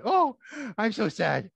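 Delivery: puppet dog begs for a bone; mock sad dog. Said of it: "the poor dog was sad".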